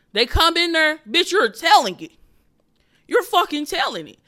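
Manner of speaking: the interrogation acted out with rising heat; loud storytelling. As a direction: ramp up the scene like a stand-up bit. Acting out the interrogation scene.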